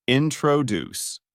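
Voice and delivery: "introduce" said slowly with the stress on the last syllable, "duce"; stress at the end. Shown as a demonstration. Teacher demonstrating word stress, "introduce" slowly stressed on its last syllable. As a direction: draw out "introduce", leaning on the final "duce". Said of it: "pronounced with a stress at the end".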